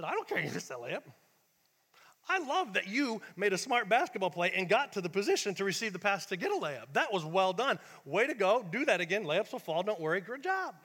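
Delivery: loud, hearty praise from a coach; energetic, affirming pep talk; encouraging coach. Retold or imitated. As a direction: build the player up with emphatic praise. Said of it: "I saw another coach".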